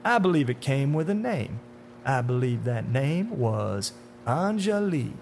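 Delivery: drawn-out, taunting menace; slow, knowing tormentor with swinging pitch; sinister man in dark suit. Acted.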